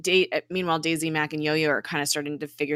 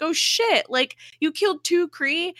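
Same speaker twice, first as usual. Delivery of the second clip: much higher, startled and alarmed; alarmed surprise; 12 semitones higher, 4 dB louder than usual. Retold or imitated. Deke finding out they killed two Kree, high alarm. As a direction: gasp it out as if caught off guard.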